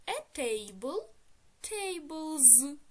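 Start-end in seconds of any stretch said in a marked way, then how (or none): 1.6-2.8 "tables" drawn out with a buzzing final z; plural s as z. Shown as a demonstration. Teacher forming the plural of table, final s voiced as z. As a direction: say "tables" as tay-blz, voicing the last sound. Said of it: "Теж читаємо як".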